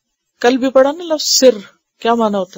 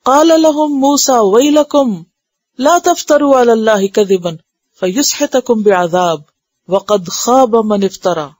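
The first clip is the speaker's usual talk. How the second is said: stern warning chanted from the verse; forceful recitation. Shown as a demonstration. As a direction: recite it so the severity is felt. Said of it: "کلام کی شدت کو محسوس کریں".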